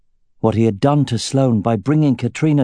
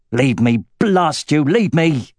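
put-on angry old man; 4 semitones higher, slower than usual. Sloane drives Aragorn away.

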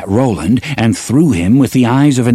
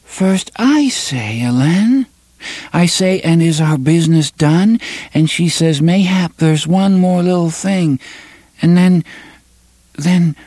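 put-on petulant little girl; 10 semitones higher than usual. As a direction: pout like a small girl. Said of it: "A faintly petulant voice of a little girl".

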